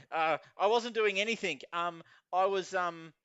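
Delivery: lightly voiced confused man searching for an answer; flustered man. Confused man explaining himself to platform security, flustered.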